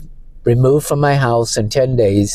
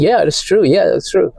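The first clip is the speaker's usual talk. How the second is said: higher, sneering imitation of the lawyer; mocking the lying lawyer; 6 semitones higher than usual. Man retelling court mocks opposing lawyer's false claim, sneering high imitation. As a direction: toss it off like a smug liar. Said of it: "And he's saying".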